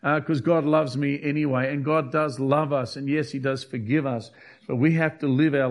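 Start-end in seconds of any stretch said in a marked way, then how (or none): 0.0-1.7 careless, higher shrugging voice; flippant. Retold or imitated. Preacher mimicking a flippant sinner, lightly higher. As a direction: toss it off as if nothing counts. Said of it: "They're very flippant".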